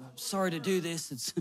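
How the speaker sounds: soft, low, sheepish pretend apology; hushed, hammed-up reluctance; mock apologetic. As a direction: apologize meekly, as if embarrassed to ask. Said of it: "but I'm apologizing".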